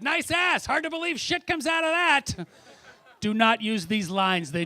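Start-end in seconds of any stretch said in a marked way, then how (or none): 0.0-2.5 put-on creepy drunk pickup line. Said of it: "I was like".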